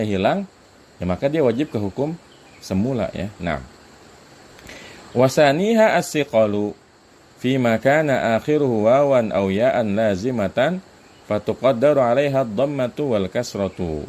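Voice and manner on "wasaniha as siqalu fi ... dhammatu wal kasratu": measured recitation of a grammar verse; reciting Arabic text. Shown as a demonstration.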